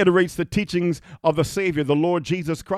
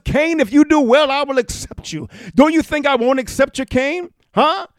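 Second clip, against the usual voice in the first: God pleading with Cain, higher and louder; 8 semitones higher, 5 dB louder than usual. Acted. God reasoning with angry Cain, pleading. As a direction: call Cain back as God. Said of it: "God speaking".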